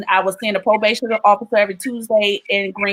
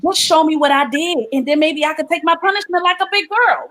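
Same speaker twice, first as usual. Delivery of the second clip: retold pleading prayer; 4 semitones higher than usual. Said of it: "this is exactly what I said".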